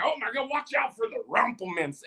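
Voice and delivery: mock panicked whisper-soft warning; imitating a scared crowd, hushed; a touch of fake alarm. Panicked people quoted.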